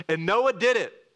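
high and loud, DID punched hard; "did" stressed high and loud, falling; emphatic reading. Shown as a demonstration. Pastor reads the verse to stress Noah's obedience, punching did. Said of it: "this double emphasis".

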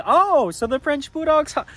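high, loud imitation of the maid; lightly voiced surprised maid. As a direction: raise the pitch to play the puzzled maid. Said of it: "she was saying, like".

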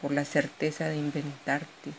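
measured poetry reading with pauses between verses; poem recital. Acted. Poet shares her own poem with an audience, poem recital.

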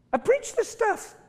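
mock yourself in a silly squeak; squeaky mock exasperation. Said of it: "And I'm going".

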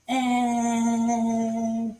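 long high "eh", steadily held; held "eh" sound. Shown as a demonstration. Showing how race winners pose, long held "eh". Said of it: "they'll be like this".

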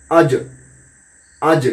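আজ with the জ released in a short bounce; bounced qalqalah. Shown as a demonstration. Teacher drilling qalqalah on জ, bounced release. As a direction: pop the জ of আজ lightly. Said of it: "ধাক্কা দিতে গিয়ে".

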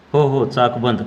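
चाक given a little extra emphasis; stress on चाक. A narrator's reading. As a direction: lean lightly on चाक. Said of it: "भाऊनं चाक शब्दावर जोर दिला".

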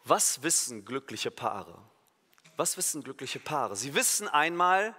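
ordinary delivery

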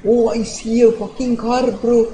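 goofy high-pitched put-on voice; silly high voice. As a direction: squeak out the lines like a cartoon. Gamer puts on silly voice.

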